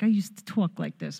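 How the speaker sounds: lightly put-on Long Island accent. Ex-Long Islander recalling how she talked, light Long Island accent. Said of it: "born and raised on Long Island".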